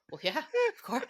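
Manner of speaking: high, breathless whispered yes; stunned whisper. Retold or imitated. Retelling reply to Disneyland invitation, stunned whisper. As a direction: whisper it as if struck speechless.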